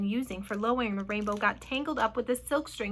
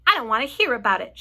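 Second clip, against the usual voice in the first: loud, mock-shrieked refusal; panicked shriek; 9 dB louder, faster than usual. A narrator's reading. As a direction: wail it loudly in dread. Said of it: "shrieked the poor old earthworm".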